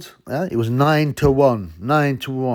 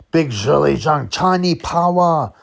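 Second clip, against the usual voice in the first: hype call; 5 semitones higher, 4 dB louder, slower than usual. Acted. Hyping the fighter.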